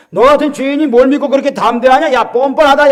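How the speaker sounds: high, forceful taunting accuser; accusing devil. Acted. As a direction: hurl scorn at a sinner. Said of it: "사탄 마귀가요, 우리를 대적해요". (죄인을 몰아세우는 마귀의 높은 목소리)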